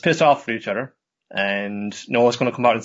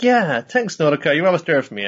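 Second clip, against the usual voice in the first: high, louder cartoon gushing; hammed-up grateful rabbit; 6 semitones higher, 4 dB louder than usual. Rabbit thanking Nodoka, high and gushing. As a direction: gush thanks in a squeaky cartoon voice.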